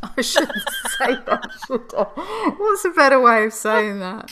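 real giggles breaking through the words; laughing. Real, not acted. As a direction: laugh while correcting yourself. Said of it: "I don't know why I'm laughing".

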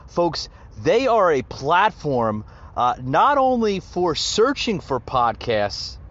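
upbeat podcast ad read with punched key words; emphatic, lively host plug; sponsor read. Acted. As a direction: sell it to the listeners like a friendly host. Reads a podcast sponsor message.

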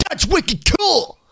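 high, drawn-out Boston catchphrase; Boston slang impression. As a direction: imitate a Bostonian enthusing in slang. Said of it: "Well, Ben keeps saying".

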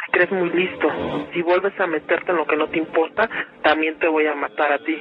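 low, menacing demonic voice; possessed man's voice. Real, not acted. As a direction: threaten in a deep possessed voice. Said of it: "hablaba con voz de hombre".

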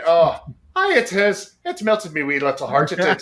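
thick put-on Irish brogue, playful; Irish accent. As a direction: lay the Irish accent on thick to charm the barmaid. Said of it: "I laid that bullshit Irish accent on her thick".

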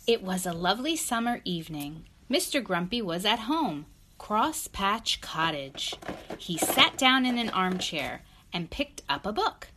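clear, measured picture-book narration; story read to child. A narrator's reading.

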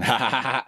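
uncontrollable laugh. Real, not acted. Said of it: "y'all know I laugh uncontrollably sometimes".

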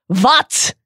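lightly voiced Krum quote; a hint of a brooding Quidditch star; Krum impression. Quoting Krum's line.

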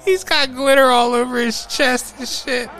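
high, loud amused outrage; excited. Real, not acted. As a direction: blurt it out laughing at the absurdity. Excited retelling.

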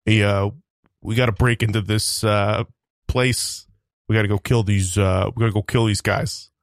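a hint of a gruff mercenary; lightly voiced tough guy planning a raid; Expendables Stallone impression. A light Expendables impression for the reel. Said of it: "Sylvester Stallone's character from The Expendables".

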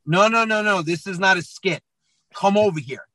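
mildly insistent dad, pitched a bit up; lightly acted fatherly telling-off; firm dad. Dad to daughter testing whether it's a skit, firm.

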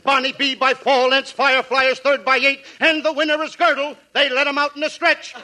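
mock play-by-play of the horses; lightly voiced race announcer; race call. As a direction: rattle off the race like a track announcer.

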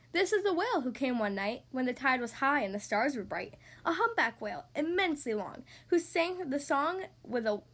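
measured, lilting read of a rhyming tale; children's story narration. A narrator's reading. Podcast host reading a snail and whale tale to children, storytelling. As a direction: read the rhyme clearly for young listeners. Reads a picture book to children.

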